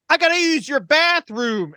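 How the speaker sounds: just announce it with no manners; blunt announcement. Retold or imitated. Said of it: "And then he just goes".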